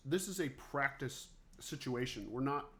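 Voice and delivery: talking through a mouthful of food; words round a bite, mouth full. Real, not acted. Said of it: "I'm, like, talking with my mouth full".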